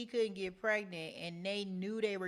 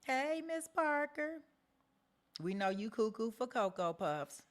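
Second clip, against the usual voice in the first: mock cop warning. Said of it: "law enforcement just goes out and say".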